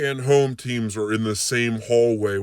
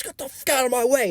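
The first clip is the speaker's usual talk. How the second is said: angry snarl; faster than usual. Retold or imitated. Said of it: "he goes".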